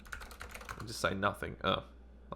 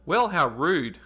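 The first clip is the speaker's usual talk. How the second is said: feigned offense, a touch louder; mock offended; 6 semitones higher, 6 dB louder, slower than usual. A narrator's reading. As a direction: pretend to be insulted. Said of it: "attempting to be offended".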